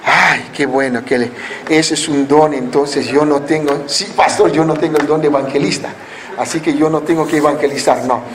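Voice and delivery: low-pitched mock excuse; excuse-making churchgoer. Acts a believer dodging evangelism.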